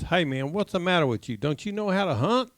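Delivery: disgusted scolding, rising in pitch; mildly exasperated ribbing; mock disgust. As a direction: chide a hopeless hunter, acted. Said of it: "looked at him so disgusted".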